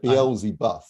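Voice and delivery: Beelzebub slowly, mimicking an odd French-sounding ending; imitated mispronunciation. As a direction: mimic the misread Beelzebub, last syllable like "boeuf". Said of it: "You pronounced it Beelzebub".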